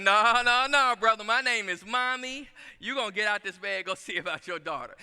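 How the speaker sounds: wife pushing husband out of bed; wife refusing. Retold or imitated. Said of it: "my wife would be like".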